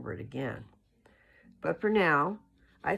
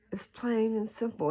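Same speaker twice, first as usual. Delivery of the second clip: whispered, leaning in to make the point; emphatic whisper; 8 semitones higher than usual. Real, not acted. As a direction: breathe it out, intimate and sure.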